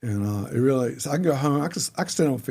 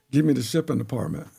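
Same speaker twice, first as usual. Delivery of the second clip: ordinary talk, nothing marked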